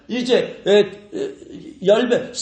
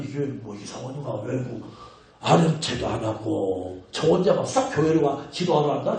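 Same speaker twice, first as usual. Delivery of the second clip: mock foreigner's complaint; 7 semitones lower, 4 dB quieter than usual. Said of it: "외국 사람 오면".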